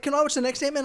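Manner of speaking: a hint of an eager mum begging for the sequel; mum asking.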